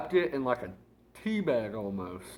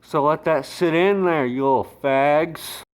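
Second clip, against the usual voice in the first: slow, drawn-out taunt; 5 dB louder, slower than usual. Acted. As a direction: let it sink in slowly. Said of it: "mock tough sign-off".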